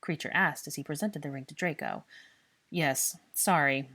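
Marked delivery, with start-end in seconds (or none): 2.7-3.9 slow, grudging grumble; reluctant slow grumble; grumbled. Acted. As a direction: mumble the apology grudgingly, slowly. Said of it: "he grumbled".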